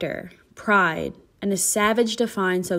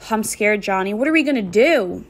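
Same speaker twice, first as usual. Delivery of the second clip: frightened. Acted. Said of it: "I hadn't realized I was screaming".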